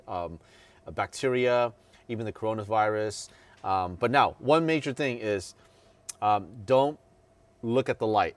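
muffled behind cloth mask; through a face mask. Real, not acted. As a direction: mouth covered while talking. Seen 3: Black cloth mask put over mouth at 0.6s, worn throughout.

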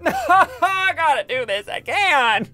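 high-pitched dismayed wail; loud, high gamer protest; outraged whining. Real, not acted. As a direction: wail it in disbelief. Learns he must repeat task.

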